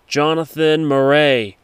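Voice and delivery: slow, commanding announcement from above; mock police loudspeaker. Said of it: "the helicopter started talking".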